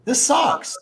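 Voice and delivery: high, drawn-out grumble; playful sulky complaint; mock bored whine. Retold boredom without any trolls.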